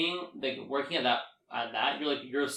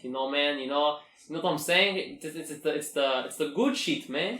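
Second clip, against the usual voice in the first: dumb Israeli accent; 4 dB louder than usual. Shown as a demonstration. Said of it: "dumb, like, Israeli accent".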